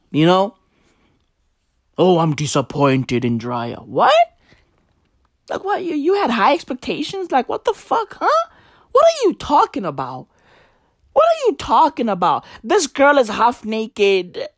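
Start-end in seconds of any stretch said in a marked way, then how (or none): 2.0-3.8 lower, whiny mock of a let-down fan; mock the fans' pretend disappointment; mock disappointed fan. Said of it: "mocking fans again". 3.8-11.5 much higher, squeaky disbelief; incredulous. Real, not acted. Incredulous rant at fans.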